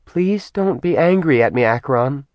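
a goddess begging not to be hurt; cautious, frightened female voice; timid goddess pleading. Acted. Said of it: "approached him cautiously ... terrified of him".

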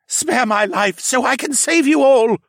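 high, loud desperate bellow. A narrator's reading. Captured mage bargains for his life, bellowing. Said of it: "the mage bellowed".

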